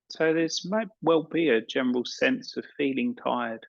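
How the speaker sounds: calm meditation guide with long pauses; unhurried guiding voice, leaving space between phrases; guided meditation. Acted. Yoga teacher settling an evening class into relaxation, guided meditation.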